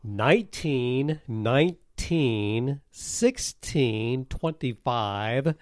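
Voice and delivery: slow, soft drawn-out numbers with rising ends; slow dramatic reading. Shown as a demonstration. Host reading plays per week to listeners, slow teasing. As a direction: read each number slowly for suspense. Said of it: "I wanna read some numbers".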